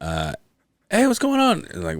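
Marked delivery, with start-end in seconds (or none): 0.9-1.7 dad's greeting. Retold or imitated. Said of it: "He called me and he goes".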